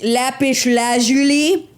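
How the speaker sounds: slow, drawn-out lazuli lifting up at the end; mock show-off rising on lazuli; mock dude boast, rising. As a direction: savour lapis lazuli like a brag, ending up. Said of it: "you were like".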